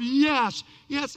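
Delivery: loud mock roar from a crowd; emphatic acted cheer. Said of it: "a big old roar of".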